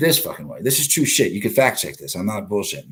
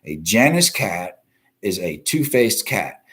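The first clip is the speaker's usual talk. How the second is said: slowed-down definition, Janus weighted; slow explaining; slower than usual. Shown as a demonstration. Host explains the term slowly to viewers. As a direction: spell out the term like a teacher. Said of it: "just so you're aware".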